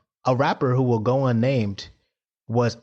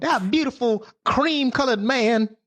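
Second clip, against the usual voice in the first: slow, high, savouring gush; swooning admiration; 9 semitones higher than usual. Real, not acted. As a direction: draw it out adoringly. Gushing over an admired singer.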